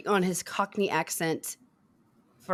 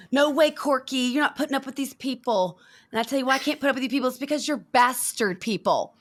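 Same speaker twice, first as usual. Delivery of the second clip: higher-pitched mock indignation; quoted angry rant; 5 semitones higher than usual. Fan re-doing the bastard people monologue, mock angry. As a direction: play a hammed-up huffy tantrum. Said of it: "he gets mad and does this whole monologue".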